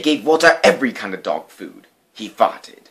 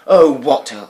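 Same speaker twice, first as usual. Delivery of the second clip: put-on child voice; 5 semitones higher, 8 dB louder than usual. A narrator's reading. Girl sadly addresses dog.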